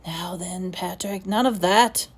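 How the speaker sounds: put-on headmaster awkwardly stopping a crying boy, gruff; gruffly. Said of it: "he said gruffly".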